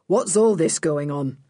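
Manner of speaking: lightly voiced inspector, businesslike; police inspector. A narrator's reading. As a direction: demand an explanation as a policeman. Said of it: "said the first man, who was an inspector".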